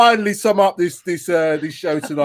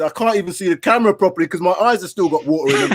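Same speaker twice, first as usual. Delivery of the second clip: laughing through the sign-off; crying with laughter. Real, not acted. Host signing off with watering eyes, crying with laughter. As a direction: talk through real, tearful laughter. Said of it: "I'm actually crying here".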